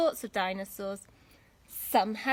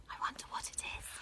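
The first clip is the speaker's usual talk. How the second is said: hushed whisper of wonder; 11 dB quieter, much faster than usual. Acted. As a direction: breathe it, curious.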